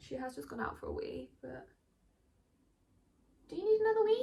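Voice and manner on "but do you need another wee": very high, loud put-on dog-talk voice. Speaking to the dog, in the voice people put on for dogs. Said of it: "Why do we put on that voice when we speak to dogs?".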